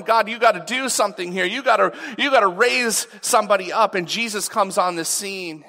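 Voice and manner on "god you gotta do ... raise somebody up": urgent, a little louder, quicker plea; pleading outcry. Retold or imitated. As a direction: cry out to God for rescue, pressing. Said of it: "the people are crying out".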